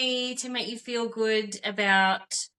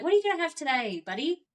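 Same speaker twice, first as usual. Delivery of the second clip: sweet mum voice; 6 semitones higher, faster than usual. Retold or imitated. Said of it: "And I was like".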